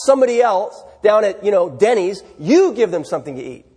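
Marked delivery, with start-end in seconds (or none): 2.4-3.7 You hit a little harder than the rest; stress on YOU. Shown as a demonstration. Pastor repeating the command, stressing You. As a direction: land the weight on You. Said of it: "So the emphasis is on them".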